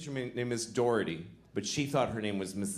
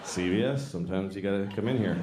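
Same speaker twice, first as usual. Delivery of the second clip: mock slogan; 3 semitones lower than usual. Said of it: "That should be their slogan".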